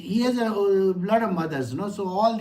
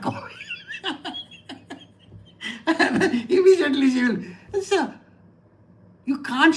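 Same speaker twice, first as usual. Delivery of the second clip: words spilling through a laugh; 8 semitones higher than usual. Real, not acted. Telling how she orders coffee, laughing. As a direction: laugh as you say it.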